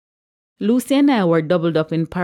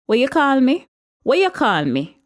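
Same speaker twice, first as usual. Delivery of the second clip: indignant, pitched-up challenge; narrated shout, high and affronted; 8 semitones higher, 3 dB louder than usual. A narrator's reading. Regina crossing the church to confront Patricia, shouting. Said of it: "Regina shouted".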